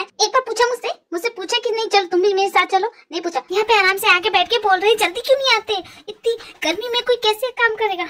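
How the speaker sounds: ऊँचे सुर में चिढ़कर ताने; बॉस पर शिकायतों की झड़ी लगाओ; नाराज़ शिकायत. Acted. सेक्रेटरी का बॉस से झगड़ा. (चिढ़ी हुई शिकायत)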